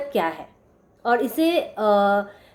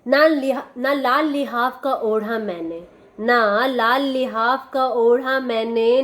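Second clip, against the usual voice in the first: poem recitation. Acted. Reciting a love poem at sister's request, measured poetry recital. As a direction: recite each line deliberately, letting the last word linger. Recites the poem's final verses.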